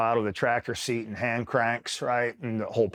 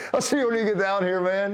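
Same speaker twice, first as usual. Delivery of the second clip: imitated commander, amused; 12 semitones higher, 3 dB louder than usual. Laughing repeat of commander's reply.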